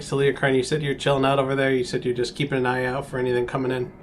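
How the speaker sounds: usual speaking voice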